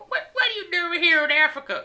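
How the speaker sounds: high, loud put-on African accent; hammed-up African accent; mock African accent. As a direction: pitch it up in a caricatured African accent. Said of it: "is that how they talk in Africa?".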